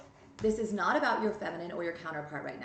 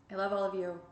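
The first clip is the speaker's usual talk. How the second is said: settled, sincere affection; plain sincere love; sincere repeat. Real, not acted. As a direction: say it again, calm and meant. Repeated softer.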